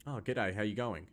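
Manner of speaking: lazy slurred Aussie greeting; ocker Australian accent. Shown as a demonstration. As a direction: roll it through the mouth, ocker style. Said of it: "it's very just rolled through the mouth".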